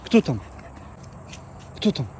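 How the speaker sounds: high excited "who's there"; talking to a dog. Real, not acted. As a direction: rouse the dog, rising pitch. Asking dog who is there.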